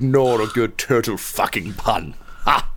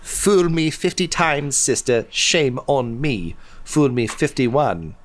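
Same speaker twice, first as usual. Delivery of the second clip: sulky younger brother; 6 semitones higher than usual. Acted. Brother retorts to sister.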